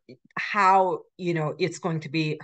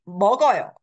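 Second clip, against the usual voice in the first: "먹어요" pitched up, then dropping firmly; command tune; 5 dB louder, much faster than usual. Shown as a demonstration. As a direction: say "먹어요" as telling someone to eat. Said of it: "like you eat the 갈비".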